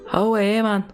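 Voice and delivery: high, exaggerated copy of Geordie; Geordie accent attempt. Shown as a demonstration. Streamer copying an accent tutorial, high Geordie attempt. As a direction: mimic a Geordie call, high-pitched. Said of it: "look up a Newcastle accent".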